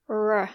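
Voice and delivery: R sounded as an American curled R; American rhotic R. Shown as a demonstration. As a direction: curl the tongue for a full American R. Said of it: "in American English the R is more".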